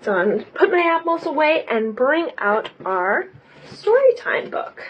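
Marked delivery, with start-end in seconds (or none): 3.7-4.8 excited announcement. Acted. Announcing story time, high whisper.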